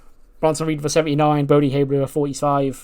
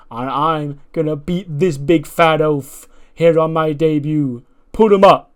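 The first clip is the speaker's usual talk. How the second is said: slow, raised, eager rookie voice; Brody Haywood promo; 2 semitones higher, 5 dB louder, slower than usual. Retold or imitated. Rookie wrestler answering the big man, eager challenge. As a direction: play the cocky newcomer. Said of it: "He goes".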